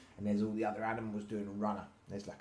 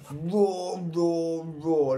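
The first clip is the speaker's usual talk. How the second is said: loud, high repeated roars; triumphant roar; 7 semitones higher, 8 dB louder, much slower than usual. A narrator's reading. Little Lion showing his family, triumphant roaring. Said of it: "said Little Lion triumphantly".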